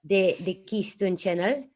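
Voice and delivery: put-on French-accented channel intro, rising at the end. Presenting the channel to viewers, French accent. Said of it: "stick with the, uh, French, uh, accent".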